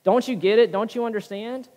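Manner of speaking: speaking to God in prayer, upset and frustrated; mock frustrated prayer. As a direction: vent your frustration to God. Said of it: "tell him".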